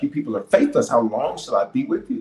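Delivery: mildly exasperated rebuke, pitch lifted at first; retold frustration. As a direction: act out a touch of frustration. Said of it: "he gets frustrated".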